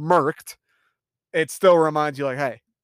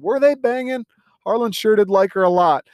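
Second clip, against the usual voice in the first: much higher, sly insinuating question; teasing gossip; 7 semitones higher, 3 dB louder than usual. Real, not acted. Viewer asks the audience about Harlan and Marta, teasing. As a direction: stir up gossip with a grin.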